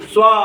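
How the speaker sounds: स्वॉ ending on a long aw; open aw sound. Shown as a demonstration. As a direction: model स्वॉ, stretching the final aw. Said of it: "ए चा उच्चार अ असा करायचा". (स्वॉ मधला ऑ लांबवून)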